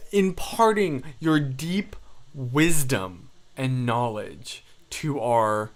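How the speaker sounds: slow, mock-grand, deliberate plea; mock-solemn. Streamer begging Cass for deep wisdom, mock-solemn. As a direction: draw each word out with hammed-up reverence.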